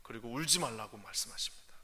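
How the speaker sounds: hushed, tender whisper. Real, not acted. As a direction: draw them in softly. Preacher whispers.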